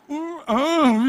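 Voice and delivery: high, loud mock baby whimper; pretend baby cry. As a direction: whine like a baby with a pacifier. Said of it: "eu chorava". (choro de bebê fingido, agudo e alto)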